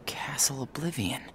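hushed, wary whisper. Acted. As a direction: whisper the name like a secret. Repeating the castle name to himself.

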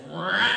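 short mock snake roar; quick "rah" of a striking snake; imitated snake strike. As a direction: mimic a snake lunging at the camera. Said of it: "It goes like this".

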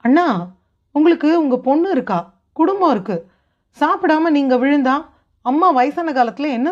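lightly voiced, urgent brotherly plea; pleading younger brother. Younger brother urging his grieving elder to stay strong, pleading. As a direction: press him to pull himself together.

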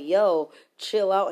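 slow, loud, firm warning. Retold or imitated. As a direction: spell it out slowly. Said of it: "I'm like".

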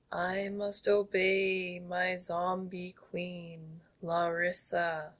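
slow loud monotone zombie. Shown as a demonstration. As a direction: drone it out like a mindless zombie. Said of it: "in your zombie voice".

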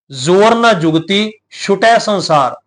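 slow recitation with a pause after ਜੁਗਤੀ. Shown as a demonstration. Preacher shows where to pause in the verse, with a break after ਜੁਗਤੀ. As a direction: hold a short break after ਜੁਗਤੀ, then ਛੁਟੈ ਸੰਸਾਰ. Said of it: "ਜੁਗਤੀ ਸ਼ਬਦ ਤੇ ਵਿਸ਼ਰਾਮ ਦੇਵਾਂਗੇ".

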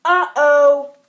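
a high, loud cartoon "uh-oh"; loud comic uh-oh. Narrator voicing a cartoon character's alarm, loud and high. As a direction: yelp it like a startled comic character.

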